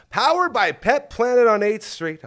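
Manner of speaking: loud, high announcer call; sponsor announcement. Real, not acted. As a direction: belt out the sponsor plug.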